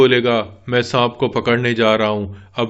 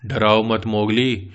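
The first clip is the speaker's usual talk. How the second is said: nervous; 5 semitones lower than usual. Acted. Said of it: "मुझे तो पहले से ही डर लग रहा है".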